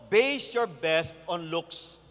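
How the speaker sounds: each word slowly, low; slow, weighty. Shown as a demonstration. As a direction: drive the key point home slowly. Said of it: "sermon key point". (dahan-dahan at may diin)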